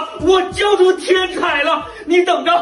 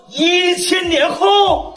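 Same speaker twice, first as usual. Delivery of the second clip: surprised shout; 4 semitones higher, much slower than usual. Acted. Teacher catches student talking.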